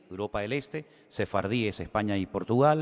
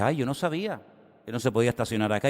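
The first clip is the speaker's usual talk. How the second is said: whiny excuse; 2 semitones higher, faster than usual. Retold or imitated. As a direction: play innocent to the cop, then hurry on. Retold excuse to a policeman.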